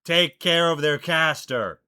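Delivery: loud, drawn-out battle shout; shouted command. Acted. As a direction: shout the order across the battlefield.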